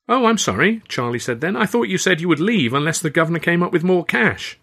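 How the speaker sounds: mock-innocent apology. A narrator's reading. Charlie feigning apology.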